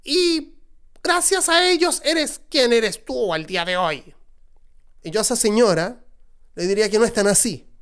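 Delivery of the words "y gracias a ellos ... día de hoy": put-on high, scolding older woman voice; scolding mother. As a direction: play the reproachful mom, lecturing. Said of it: "tú en tu casa estarás diciendo".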